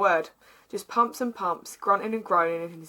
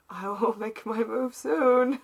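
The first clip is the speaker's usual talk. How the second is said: laughing; 2 semitones higher, slower than usual. Acted. Acting out the seductive thought.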